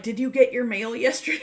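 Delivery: quick, high question breaking into laughter; laughing. Retold or imitated. Friend who knows the whole story asking, laughing. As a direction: ask it fast, then crack up. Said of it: "'cause she's laughing".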